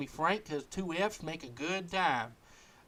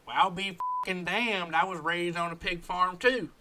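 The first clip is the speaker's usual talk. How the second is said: amazed; 5 semitones higher, 3 dB louder than usual. Acted. Guest learns he shares a pig-farm upbringing, amazed. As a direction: marvel at the coincidence, rising on the last word.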